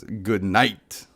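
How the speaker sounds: low, soft attempt at Shadow's voice. Streamer trying Shadow's line for the stream, lightly voiced. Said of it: "Shadow says".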